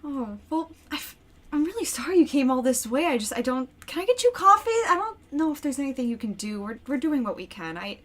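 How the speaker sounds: high, hurried, nervous hospitality; flustered anxious mother. Acted. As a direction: fuss over the guests nervously. GM voices Ronnie, flustered host.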